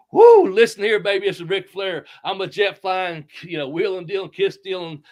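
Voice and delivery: loud, high Ric Flair strut, woo and all; Ric Flair impression. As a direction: belt it out like the Nature Boy. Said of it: "does a pretty good Ric Flair impersonation".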